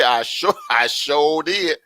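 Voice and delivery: playful Southern drawl on the words; mock Southern twang, amused. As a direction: lean into a drawn-out Southern accent. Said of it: "in my Southern voice".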